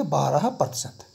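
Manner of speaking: बारह प्रतिशत read slowly, word by word; slow demo reading. Shown as a demonstration. Teacher shows the class how to read it, slowly. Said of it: "इसको हम क्या पढ़ेंगे?".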